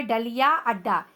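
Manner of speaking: डलिया and अड्डा spoken slowly with a clear ड; slow demo. Shown as a demonstration. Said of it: "देखो, एक ड का ड़ प्रयोग कैसे हुआ है".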